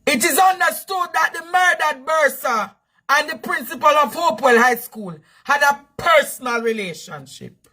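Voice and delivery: formal report voice, reading it out straight; news read. Acted.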